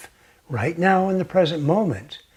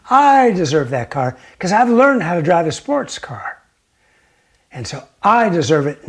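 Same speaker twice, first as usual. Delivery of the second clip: louder, pressing on I; jealous insistence; 6 dB louder than usual. Acted. Jealous man claiming the car, louder mild anger. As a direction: insist it should be yours. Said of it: "He immediately gets jealous and angry".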